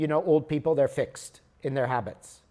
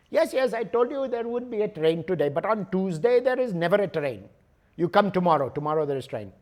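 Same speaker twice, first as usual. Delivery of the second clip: higher, matter-of-fact clerk voice; imitated ticket clerk; 3 semitones higher, faster than usual. Clerk telling traveler Tuesday has no train, lightly voiced. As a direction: explain it like it's obvious.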